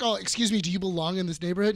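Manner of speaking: mock Karen, indignant and quick. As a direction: play the nosy neighbor accusing a stranger. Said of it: "comes out to be a Karen".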